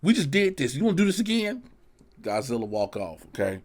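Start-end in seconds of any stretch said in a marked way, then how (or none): 0.0-1.6 a hint of exasperated Kong, higher; mildly voiced fed-up monster; weary Kong. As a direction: whine like you're tired of fighting. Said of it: "You got Kong like".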